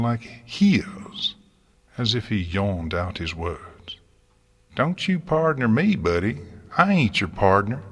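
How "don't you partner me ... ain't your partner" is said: angry retort. Acted. Farmer and gardener quarrel.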